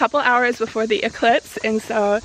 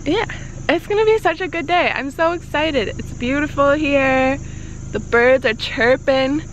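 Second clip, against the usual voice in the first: excited; 3 semitones higher than usual. Real, not acted. Gushing about the beautiful day.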